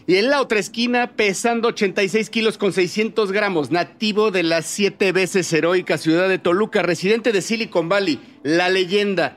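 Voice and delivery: lucha libre announcer. Pretend. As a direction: ring announcer introducing a fighter. Introducing co-host like a wrestler. (presentador de lucha libre)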